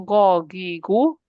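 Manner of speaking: go, gi, gu gargled at the back of the throat; gargling sound. Shown as a demonstration. Teacher demonstrating the gargled ghain to students. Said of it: "Goggling sound".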